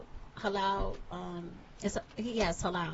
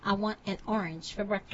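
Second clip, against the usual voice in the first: New York accent; 5 semitones lower, 11 dB quieter than usual. Shown as a demonstration. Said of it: "that's the accent I was looking for".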